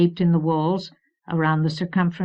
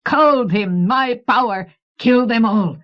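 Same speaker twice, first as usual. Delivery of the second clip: loud, high creature rant; 5 semitones higher, 7 dB louder than usual. A narrator's reading. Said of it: "As his high voice ranted".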